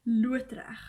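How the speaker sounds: loodreg said the Afrikaans way, "loo-uh-treg" with a throaty ending; Afrikaans word. Shown as a demonstration. Explaining to English friends, saying loodreg the Afrikaans way. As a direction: say loodreg as a native Afrikaans speaker. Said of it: "that's the Afrikaans word".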